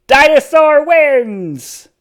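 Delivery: slow, loud triumphant cheer. A narrator's reading. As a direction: announce the victory proudly. Triumphant announcement.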